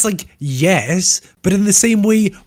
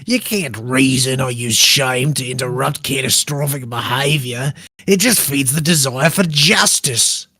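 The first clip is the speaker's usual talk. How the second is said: put-on Australian accent. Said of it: "Do it possibly in an Australian accent".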